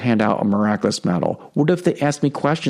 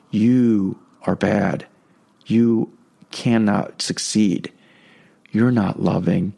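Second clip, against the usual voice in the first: slow, lower, harsh accusing voice; harsh diabolical voice; 5 semitones lower, slower than usual. Retold or imitated. The devil's voice accusing the listener, harsh and slow. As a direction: lean into each accusation, slowly and coldly. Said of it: "Diabolical voices are usually harsh".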